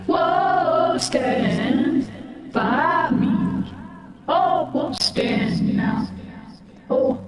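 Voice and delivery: singing through a voice changer. Real, not acted. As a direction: karaoke with a voice filter. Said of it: "With the, with the voice changer".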